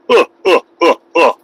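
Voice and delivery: grunts. Pretend. Grunts within Russian act.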